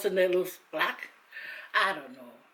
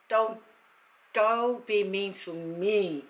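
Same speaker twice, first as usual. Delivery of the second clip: emotional plea; much slower than usual. Real, not acted. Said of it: "I'm emotional".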